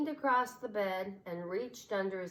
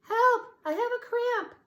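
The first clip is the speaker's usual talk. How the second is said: much higher, louder panicked cry; crying for help; 10 dB louder than usual. A narrator's reading. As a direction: call out in mock distress. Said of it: "Suddenly she cried".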